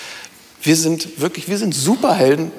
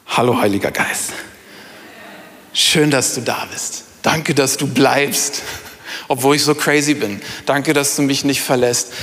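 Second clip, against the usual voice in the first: tender personal prayer; 3 semitones lower than usual. Shown as a demonstration. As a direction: greet the Spirit inside you gently. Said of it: "ja, und sag".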